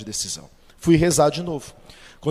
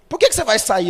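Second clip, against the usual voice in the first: raised, louder startled question; surprised boss; 6 semitones higher, 5 dB louder, faster than usual. Retold or imitated. Boss surprised by his employee quitting, raised voice. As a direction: boss caught off guard by resignation.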